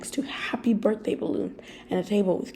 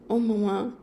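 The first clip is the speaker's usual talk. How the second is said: sobbing; 3 dB louder than usual. Acted. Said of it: "you sobbed".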